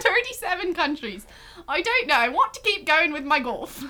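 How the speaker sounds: playful attempted Irish accent, lifted pitch; amateur Irish accent, wobbling but game. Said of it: "what do Irish people say?".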